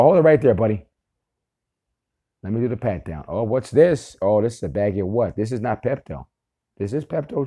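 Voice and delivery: lightly voiced police officer busting someone; cop voice. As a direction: play a cop making an arrest, half-serious. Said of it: "this is how we bust 'em. We go".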